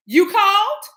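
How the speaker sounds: Lurch voice. Retold or imitated.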